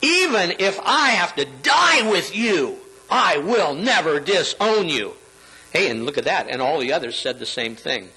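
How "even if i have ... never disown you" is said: acted-out emphatic pledge; emphatic insistence. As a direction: insist firmly, leaning hard on "die" and "never". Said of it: "Peter insisted emphatically".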